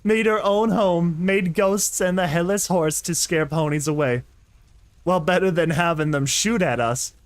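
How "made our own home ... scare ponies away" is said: orc voice. Acted. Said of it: "It's so fun to do".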